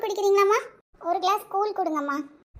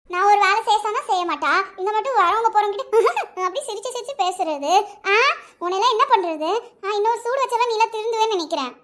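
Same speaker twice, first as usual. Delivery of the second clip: angry scolding. Acted. Aunt berating girl.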